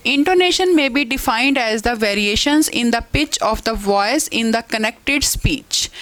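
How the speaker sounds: slow, careful textbook read-aloud; measured classroom dictation. Acted. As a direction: read the definition out slowly for the class. Reads English definition aloud.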